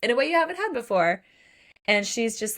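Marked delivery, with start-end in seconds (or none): 0.0-1.2 higher, quick and mildly anxious questions; concerned check-in. Retold or imitated. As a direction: check on them in a quick, lifted voice. Men retold checking on her.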